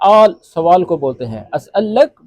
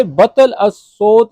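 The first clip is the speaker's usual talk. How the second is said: slow demo; 3 dB louder, much slower than usual. Shown as a demonstration. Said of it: "तो इसको अरबी में बोलेंगे".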